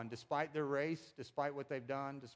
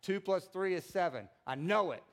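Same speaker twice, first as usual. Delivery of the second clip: builds from firm to a loud, higher shout; mock convincing yell; 4 semitones higher, 5 dB louder than usual. Shown as a demonstration. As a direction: yell it like a fake preacher sure of himself. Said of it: "I can yell and I can be convincing".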